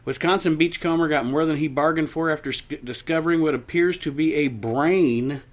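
measured announcer-like reading; news story read. Acted. Host reads listeners a strange local story, news-read delivery. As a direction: read it out as an odd news item.

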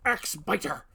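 big orc bellowing its boast; yelling. A narrator's reading. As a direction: roar it out, high and loud. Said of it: "it yelled".

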